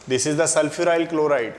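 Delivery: very slow, every word spaced for note-taking; slow dictation. Shown as a demonstration. Teacher to class, dictating slowly. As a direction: spell it out slowly so students can write.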